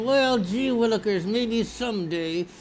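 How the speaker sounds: slow dopey daydreaming voice; lightly voiced lazy pothead; mock pothead. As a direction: drawl it out like a stoned dreamer. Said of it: "petting your little puppy and going".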